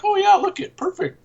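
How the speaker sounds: high-pitched imitation of an impressed onlooker; hammed-up, squeaky enthusiasm; mock approval. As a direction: jump up high as if delighted by the sight. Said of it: "be like".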